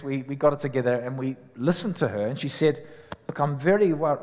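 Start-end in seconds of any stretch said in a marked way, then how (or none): 3.3-4.2 put-on brief, half-hearted French accent; abandoned French accent. Retelling a worried French girl's words, attempted French accent. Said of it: "I can't do a French accent".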